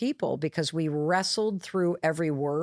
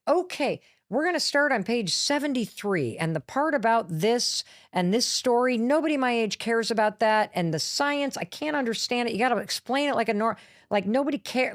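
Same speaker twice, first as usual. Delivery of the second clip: raised, pushy daughter voice, talking fast; bossy daughter; 4 semitones higher than usual. Retold or imitated. Daughter bossing mom about the book pages, pushy and raised. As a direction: nag like a daughter running the edit.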